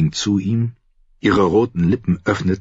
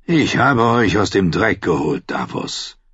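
weary. Acted. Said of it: "erklang er müde als wütend".

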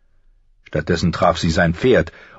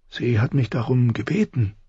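higher, small-voiced excuse; defensive plea; 5 semitones higher, 4 dB quieter than usual. A narrator's reading. Butcher's boy repeating his excuse to the prince, defensive plea. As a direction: insist timidly on your excuse. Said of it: "verteidigte sich Myka".

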